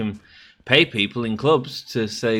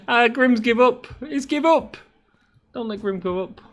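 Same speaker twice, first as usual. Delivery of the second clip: much higher, louder silly voice; mock squeaky voice; 5 dB louder than usual. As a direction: squeak out your own defeat in mock pity. Mocks himself in third person.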